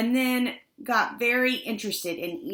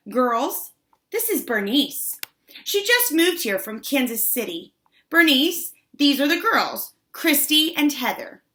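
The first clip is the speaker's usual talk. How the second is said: lightly voiced schoolgirl, higher and louder; a touch of the class ambassador presenting a newcomer; fifth-grade ambassador; 6 semitones higher, 4 dB louder than usual. A narrator's reading. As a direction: introduce the new girl to your friends, pitched up. Fifth grade ambassador introduces new girl.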